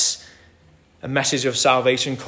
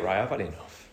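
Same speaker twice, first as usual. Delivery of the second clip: weary despair. Retold or imitated. Jonah voiced despairing, wanting death.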